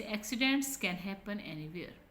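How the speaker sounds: slow, stressed "accidents", dropping by "anywhere"; falling intonation. Shown as a demonstration. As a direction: start up on "accidents" and fall on "anywhere". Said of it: "कहाँ हमारी आवाज़ नीचे जाती है".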